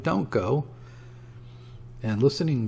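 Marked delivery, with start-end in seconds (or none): 0.0-0.7 high, urgent plea; pleading shout. A narrator's reading. Woman begging man to stay, high pleading cry. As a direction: beg him not to leave. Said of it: "she shouted".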